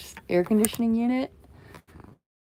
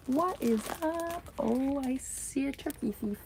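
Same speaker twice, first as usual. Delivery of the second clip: pet talk; 7 semitones higher, 3 dB quieter than usual. Real, not acted. Greeting her cat in pet voice.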